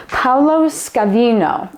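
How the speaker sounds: Paolo Scavino in a playful fake Italian accent, slowed down; mock Italian accent. Shown as a demonstration. Hamming up the producer's name for viewers, mock Italian accent. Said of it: "fake speaking Italian".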